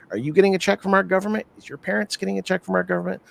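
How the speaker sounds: lightly voiced scammer trainer, pitch often lifted; persuasive recruiter. Scammer school teacher justifying theft to new recruits, persuasive. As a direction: talk a hesitant recruit round, lightly acted.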